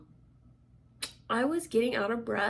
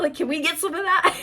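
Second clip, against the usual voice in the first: asked through a laugh, higher and louder; 7 semitones higher, 5 dB louder than usual. Real, not acted. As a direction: giggle while asking for the money. Joking about government spending money.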